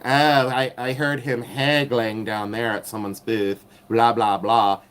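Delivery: a lightly put-on know-it-all voice, prissy and snide; mocking the troll. Mocking the flea-market woman who accused her of haggling, in a snide put-on voice. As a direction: sneer it like a gossiping busybody. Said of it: "she's like".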